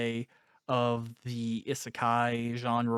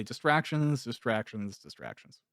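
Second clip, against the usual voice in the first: fading echo. Pretend. Host riffing on distraction, echoing the word as it fades out. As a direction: let the word echo away into silence.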